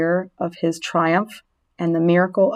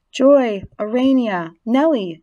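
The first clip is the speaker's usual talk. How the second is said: raised, emphatic roll-call of names; speech opening; 4 semitones higher, 4 dB louder than usual. A narrator's reading. Wilbur addresses the three daughters, formal speech opening. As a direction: proclaim each name separately, higher and firmer. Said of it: "he should make a short speech".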